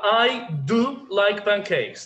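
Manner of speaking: "do" hit loud and set apart; emphatic DO. Shown as a demonstration. Teacher asking online students to judge, emphatic. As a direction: punch "do" before "like pancakes". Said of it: "you can add do".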